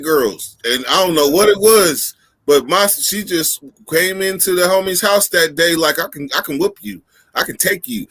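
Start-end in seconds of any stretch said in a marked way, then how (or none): 6.0-8.1 mock girl's boast. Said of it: "You know how they talk".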